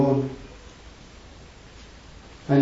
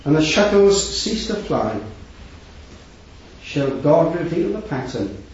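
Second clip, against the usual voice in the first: poem recital. Acted. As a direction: recite it gently, line by line. Recites a poem on God's weaving.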